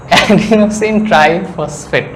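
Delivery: each syllable of adenosine triphosphate drawn out very slowly. Shown as a demonstration. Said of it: "আস্তে আস্তে কথা বলতেছি".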